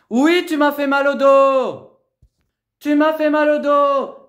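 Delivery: loud, slow, hurt complaint; real pained yell about the back; angry shout. Real, not acted. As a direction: yell it out, accusing her. Daughter hurt in the quarrel.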